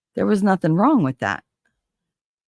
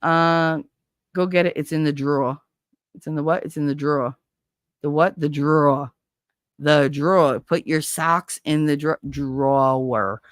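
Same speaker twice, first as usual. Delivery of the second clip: Jersey "drawer" as one syllable, "draw"; New Jersey back-and-forth; Jersey accent. Shown as a demonstration. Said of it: "talk to me with that Jersey accent".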